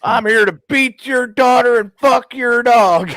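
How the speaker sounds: high, slow mock retort, savoring each word; slow high replay of the cousin's line; relished retelling. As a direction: drag it out, tasting the punchline. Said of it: "That's why he said it that way".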